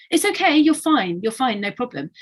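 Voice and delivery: adult reassuring. Retold or imitated. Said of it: "adults respond to ... with".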